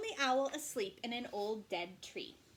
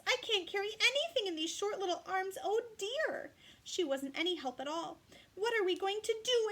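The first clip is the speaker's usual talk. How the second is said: high, mildly tearful wail; tearful kangaroo; 9 semitones higher, 5 dB louder than usual. Acted. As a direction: cry it out, a touch of sob. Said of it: "cried harder than ever".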